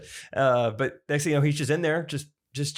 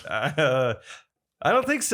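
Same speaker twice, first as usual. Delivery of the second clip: imitating a confused guy; slower than usual. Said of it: "He looks like".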